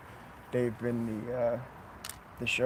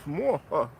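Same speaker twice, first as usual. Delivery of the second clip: evil count laugh; 3 semitones higher than usual. Pretend. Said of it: "count impersonation".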